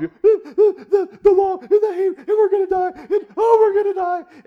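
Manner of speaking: high, loud wailing blubber through tears; hammed-up sobbing. Esther at the king's feet, pleading in a high hammed-up sob. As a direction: play Esther as a hysterical mock sob, voice cracking way up. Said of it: "he can't understand her through her sob".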